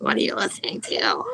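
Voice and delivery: exaggerated mimicry in a put-on voice; Eric. Teasing imitation of Eric asking about the dubstep, exaggerated put-on voice. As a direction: ham up the impression of a nosy question. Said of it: "that's a little exaggerated".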